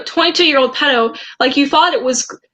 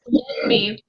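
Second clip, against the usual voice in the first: breathy whisper, much softer; 6 dB quieter than usual. Retold or imitated. Reading out the creep's message as a soft whisper.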